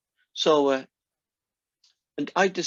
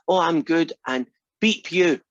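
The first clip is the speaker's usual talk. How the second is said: put-on little girl voice; 4 semitones higher, 4 dB louder than usual. Toddler cheerfully swears at mum.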